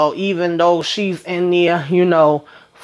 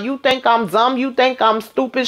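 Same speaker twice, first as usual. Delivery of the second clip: higher, imitating her yelling; mock furious questions; imitated girlfriend yelling while smashing the house; retold rage; 5 semitones higher than usual. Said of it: "acting a whole damn fool".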